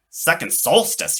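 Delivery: high, eager question; young Charlie asking, pitch up; curious boy. Acted. Boy asks the robot, high and eager. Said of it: "he asked".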